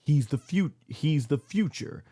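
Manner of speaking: lightly voiced slow proclamation, dragging the words; a hint of a grave wrestler pronouncing his verdict; quoting Brock Lesnar. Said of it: "he goes like".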